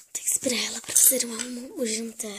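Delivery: whispered reminder; whispered aside. Acted. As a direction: whisper it out of earshot. (sussurrando à parte)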